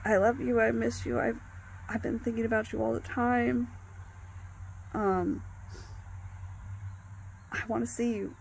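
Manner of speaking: a hint of breathless longing; hyped up. Man telling his ex he misses her, mildly hyped. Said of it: "It just sounded really hyped up".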